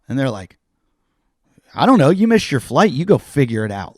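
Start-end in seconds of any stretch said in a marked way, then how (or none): 1.8-4.0 irritated brush-off, opening high and loud; retold anger. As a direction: imitate a fed-up airline worker, higher and punchy. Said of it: "they're angry at me".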